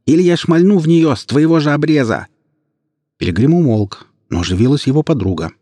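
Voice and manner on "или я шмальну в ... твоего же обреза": much higher, louder threat; furious threat. Acted. Ilya threatens the surgeon, much higher and louder. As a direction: threaten to shoot her.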